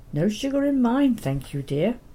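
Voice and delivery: lightly voiced Welsh lady calling out; a touch of Welsh lilt, high start; Welsh accent. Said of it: "She would call out in a strong Welsh accent".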